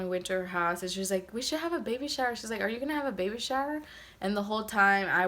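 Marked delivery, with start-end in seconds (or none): 1.3-3.8 higher, faster, chirpy mock eagerness; eager friend. Imitating Letty eagerly offering a baby shower. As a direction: rattle it off like a too-eager friend.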